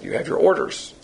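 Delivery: mock German accent on the orders. Shown as a demonstration. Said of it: "if I use your German accent".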